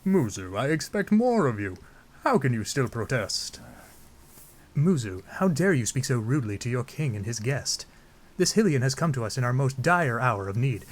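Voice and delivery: theatrical, lightly put-on noble voice; reproving royal. Royal rebukes Muzu for doubting the Hylian, stately voice. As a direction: rebuke and declaim like game royalty.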